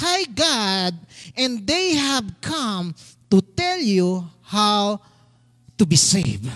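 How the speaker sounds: slow preacher's reading, stretched words; scripture reading. A narrator's reading. Pastor reading verse seventeen, slow and deliberate. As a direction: declaim the verse phrase by phrase.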